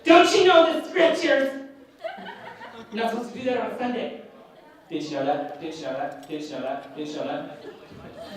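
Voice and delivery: high mocking scold, then a muttered nagging loop; scolding church lady. Mocking the lady who busted him at Walmart, high preachy scold. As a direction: mimic a preachy lady scolding about the Sabbath. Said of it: "she says".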